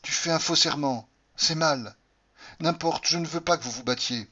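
firm reproach. Acted. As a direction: forbid him firmly. Cordelia reproche et exige. (reproche ferme, plus haut)

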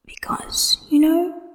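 whispered then lifted into a high sly question. A narrator's reading. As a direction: coax him, voice rising at the end. Wen Kexing always whispered.

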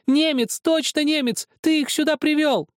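put-on high, loud child's accusation; accusing scream. A narrator's reading. Zakhar screams at Helmut that he is German, high and loud. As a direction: hurl the accusation at him.

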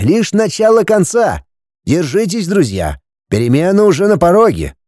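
lightly voiced old master; wise master. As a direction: speak as a calm wise teacher. Master Bo speaks wisely.

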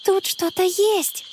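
slow, tense and hushed; excited whisper. A narrator's reading. Connie warns friends in the dark park, tense whisper. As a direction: alarm kept under the breath. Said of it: "прошептала она с волнением".

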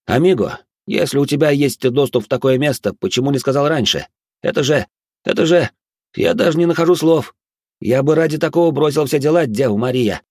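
high-pitched, overwhelmed amazement; excited exclamation. A narrator's reading. Minos amazed at Sigurd's secret access, excited exclamation. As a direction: gush in astonishment, pitch held high. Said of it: "воскликнул Минос".

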